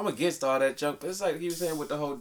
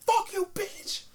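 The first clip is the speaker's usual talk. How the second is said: mock insult; slower than usual. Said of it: "I'm like".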